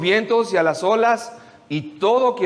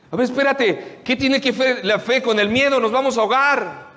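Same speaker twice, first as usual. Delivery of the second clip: frantic protest; 6 semitones higher than usual. Acted. Disciples protesting amid storm.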